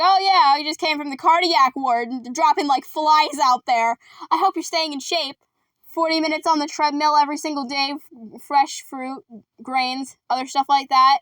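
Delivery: lightly acted lively old relative; Grandma. Grandma lectures Alice on staying in shape, lightly acted prattle. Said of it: "She's like".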